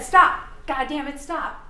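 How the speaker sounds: a loud, sharp mock shout of Stop; imitated angry yell. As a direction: bark the order like the shooter did. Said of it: "in that tone of voice".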